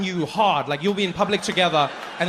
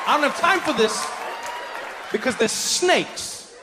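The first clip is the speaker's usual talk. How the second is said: higher, shouted I don't have time for this; exasperated; 7 semitones higher than usual. Retold or imitated. Comedian flees the snake show, higher and shouted. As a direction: storm off in a panic.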